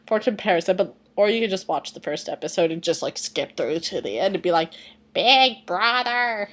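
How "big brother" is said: put-on very slow, high drawn-out little-kid call; Mokuba voice. Imitating Mokuba from the show, high and slow. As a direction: stretch it out like an annoying kid. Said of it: "it literally sounds like that".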